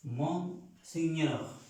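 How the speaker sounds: slow French "Mon Señor" with nasal mon. Shown as a demonstration. Teacher modelling "Mon Señor" for students. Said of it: "Masculino para el mí".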